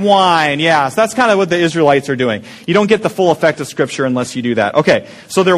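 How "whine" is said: a short complaining "whine"; whiny whine. Shown as a demonstration. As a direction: let a little whine out. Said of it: "Just kinda get that whine".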